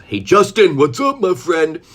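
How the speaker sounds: loud, high, drawn-out greeting; calling out hello. Real, not acted. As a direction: hail a friend who just walked in. Greets viewer who just joined.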